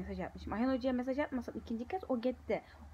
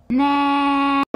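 shocked ne; 3 semitones higher, 19 dB louder than usual. Real, not acted. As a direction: blurt it out in disbelief. Kötü notu öğrenince şaşkınlık. (şaşkınlıkla bağıran ne)

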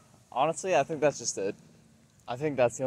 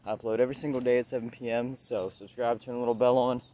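winded, talking while walking; breathless from walking and talking; out of breath. Real, not acted. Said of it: "sorry, I'm getting really out of breath".

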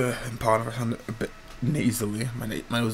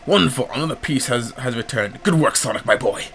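louder, pleased praise; pleased old professor; 3 dB louder than usual. Acted. Professor congratulating Sonic on returning a piece. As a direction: praise the boy proudly.

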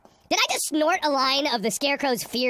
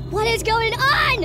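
loud slow outburst; 5 semitones higher, 5 dB louder, slower than usual. Real, not acted.

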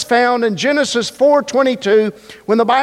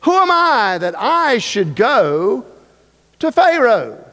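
Moses doubting; 2 semitones higher than usual. Acted. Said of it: "he said".

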